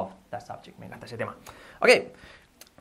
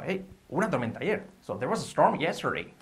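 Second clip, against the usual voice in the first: conversational tune lifting on TORMENTA and STORM; lively, melodic delivery with STORM stressed; real-life intonation; 3 semitones higher than usual. Shown as a demonstration. Teacher models sentence as if real, lively intonation. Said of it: "darle la entonación como si fuera".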